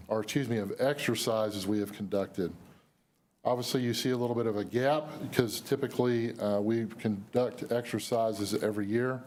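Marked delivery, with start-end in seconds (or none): 3.4-9.2 losing her voice, hoarse and strained; hoarse, voice giving out. Real, not acted. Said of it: "Sorry, I'm losing my voice".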